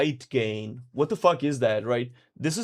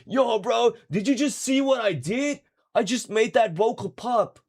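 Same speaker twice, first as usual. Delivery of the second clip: much higher, hyped-up retold brag; excited bragging; 9 semitones higher than usual. Producer telling his friend about his first good vocal, hyped-up and high. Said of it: "I was like".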